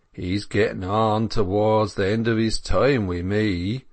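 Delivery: rustic dairyman, stolid and matter-of-fact; phlegmatic dairyman. Acted. Dairyman to lovesick milkmaids, phlegmatic country voice. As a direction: say it with a countryman's unwitting bluntness. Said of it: "with a phlegm which unconsciously was brutal".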